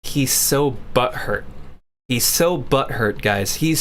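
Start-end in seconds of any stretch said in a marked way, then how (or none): 0.0-1.4 lower, slow mocking drawl; slow sneering parody; mocking repeat. Mocking the chat message back. 2.1-3.2 lower, slow sneering echo; drawn-out mock repeat. Mocking the chat message back.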